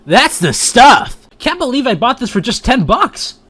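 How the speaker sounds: excited. Acted. Excited over powerup.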